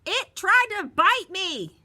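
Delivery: high, loud, slow wail; frightened exclaim. A narrator's reading. Bully Marty cries out that it bit him. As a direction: complain in fright. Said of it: "Marty exclaimed".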